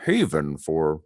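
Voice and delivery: tiny puckered mouth; sucked in cheeks. Shown as a demonstration. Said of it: "talk like this with a very small mouth".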